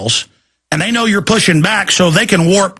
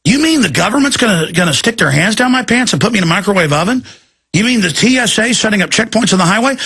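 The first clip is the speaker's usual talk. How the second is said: incredulous anchor; 3 semitones higher than usual. Retold or imitated. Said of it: "And she's like".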